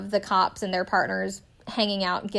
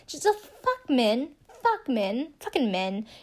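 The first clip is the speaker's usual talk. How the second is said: slow, higher, fed-up muttering; exasperated groan about men; disgusted aside; 3 semitones higher than usual. Real, not acted. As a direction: let the disgust drag out.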